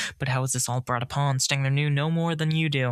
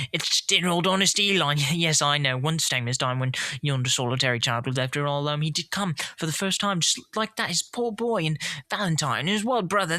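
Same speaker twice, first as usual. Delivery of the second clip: ecstatic; 3 semitones higher than usual. Acted. Stangler delighting at old storybook friends, excited. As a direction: gush with delight. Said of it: "Stangler exclaimed in ecstasy".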